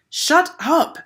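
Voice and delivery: high, loud angry yell. A narrator's reading. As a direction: yell it at her furiously. Jeff angry at taunts.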